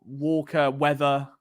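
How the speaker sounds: "Walker, weather" ending in "ah", no r; low-key demo of "Walker, weather" with British endings; open "ah" endings. Shown as a demonstration. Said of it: "We're very much an "ah".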